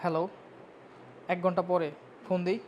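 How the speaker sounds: hushed phone reply during class; whispering on the phone. Real, not acted. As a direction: keep it low, answering a call mid-lesson. Takes a phone call mid-class.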